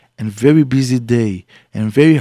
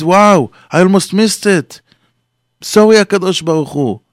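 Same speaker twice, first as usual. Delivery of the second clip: almost missed it, so glad; relieved exclamation; 6 semitones higher than usual. Acted. A man back from minyan, relieved and apologetic.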